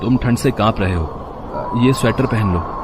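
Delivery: soft, slow, caring voice; gentle offer. Acted. Kishan offers the shivering vendor his sweater, soft and slow. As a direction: tenderly hand over the sweater.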